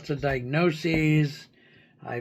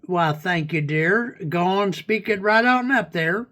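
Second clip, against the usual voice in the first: pretend hillbilly; 2 semitones higher than usual. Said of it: "pretend hillbilly slang".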